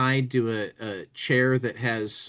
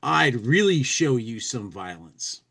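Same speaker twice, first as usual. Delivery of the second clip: brutal; slower than usual. Acted.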